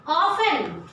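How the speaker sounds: "Often" said as OFF-en, no T; "Often" pronounced OFF-en, falling at the end; silent T. Shown as a demonstration. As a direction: model "Often" with the T dropped. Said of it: "I am not pronouncing T".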